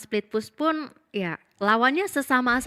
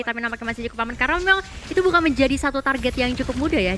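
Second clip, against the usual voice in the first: lively play-by-play commentary; esports caster; 2 semitones higher than usual. Acted. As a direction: call the match like a caster. Casts the match play-by-play. (komentator esports)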